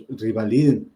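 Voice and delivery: "revaliden" with a wrong i, as "rivaliden"; mispronounced revaliden. Shown as a demonstration. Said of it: "no vas a decir rival". («revaliden» pronunciado con i, «rivaliden»)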